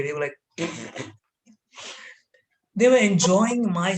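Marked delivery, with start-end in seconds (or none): 0.6-1.1 short, low mock giggle; imitated giggling. Kids enjoy pupil's suffering, imitated soft giggle. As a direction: snicker softly like onlooking classmates. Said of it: "were giggling there".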